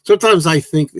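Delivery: joking attempt at a Liverpool band accent. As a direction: put on a mock Liverpool band-member voice. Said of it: "I'm doing the Beatles accent".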